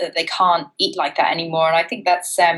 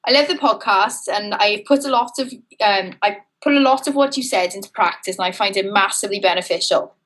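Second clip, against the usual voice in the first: put-on subdued Welsh accent. Host reads out a listener's praise in a subdued Welsh accent. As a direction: read it in a mild Welsh lilt. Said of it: "It's quite a subdued Welsh accent".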